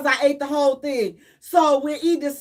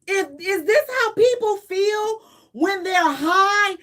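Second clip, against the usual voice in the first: crying panic; 4 semitones higher than usual. Retold or imitated. Panicking while high.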